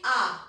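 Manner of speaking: आ said with the mouth opened wide, long open vowel. Shown as a demonstration. Teacher showing children how to say आ, mouth wide. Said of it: "हम अपने मुंह को थोड़ा सा खोलते हैं".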